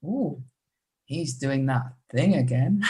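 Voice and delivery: drawn-out ooh with a rising, teasing tune; hint that something's going on; knowing insinuation. Shown as a demonstration. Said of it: "Or I could say".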